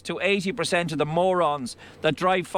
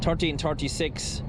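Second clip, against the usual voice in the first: Irish accent impression. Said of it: "as Rory says".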